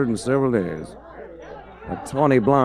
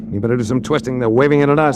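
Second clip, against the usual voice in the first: urgent call; 3 semitones higher, 3 dB louder than usual. Acted. Car chase under gunfire.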